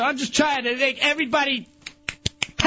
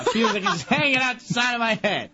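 laughing protest. Real, not acted. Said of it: "laughing while protesting".

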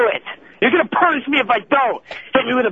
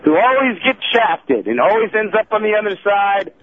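wrestling promo. Pretend. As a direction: announce yourself like a heel wrestler. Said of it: "cut a promo right now".

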